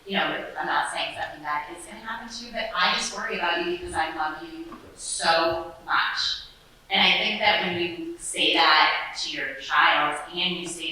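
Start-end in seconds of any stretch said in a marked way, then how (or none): 0.1-6.4 vulnerable and loving. Retold or imitated. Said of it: "I will just flat out say to them".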